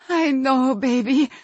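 high, loud, heartfelt soothing; emotional comforting. A narrator's reading. Mother holding her returned son, emotional comforting. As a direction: comfort a child with a swell of feeling.

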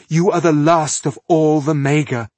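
loud, high, distraught plea; beside herself. A narrator's reading. Millennia pleading with the last Maga, beside herself. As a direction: urge her desperately to reconsider. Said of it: "Millennia was beside herself".

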